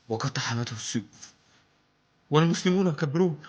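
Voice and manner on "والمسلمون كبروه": hammy stage actor. Acted. Build to battle cry.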